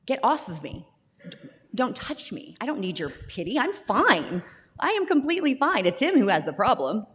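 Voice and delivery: mock-indignant brush-off with swinging pitch; retold defensive insistence. Mom retelling how she refused the other moms' hugs, defensive. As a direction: push them away, insisting too much. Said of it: "And I'm like".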